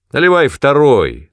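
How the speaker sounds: loud demand; commanding order. Acted. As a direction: order him to pour. Father commands. (громкий приказ)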